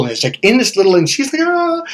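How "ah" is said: high, sharp imitated shriek; startled shriek. Lady at the front desk, startled by the roar, shrieking. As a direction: squeal like you've just been jumped.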